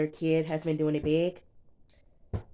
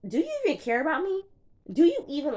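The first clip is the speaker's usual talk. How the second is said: much higher, fast pleading, imitating her; mock whiny plea; 11 semitones higher, 4 dB louder, faster than usual. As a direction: whine it like a hurt girlfriend. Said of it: "she was like".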